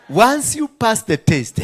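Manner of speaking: slow booming declaration; loud proclamation. Acted. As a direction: proclaim it slowly to the whole church. Same line repeated loudly.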